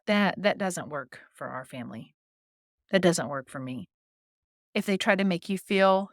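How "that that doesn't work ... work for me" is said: low, matter-of-fact boundary; short, firm pushback reply, low; emotionless. Shown as a demonstration. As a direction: state it with no emotion, pitched low. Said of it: "short, concise, emotionless phrase".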